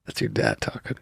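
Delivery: low, quiet soothing mock counselor; low mock therapist. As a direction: play the gentle therapist, low.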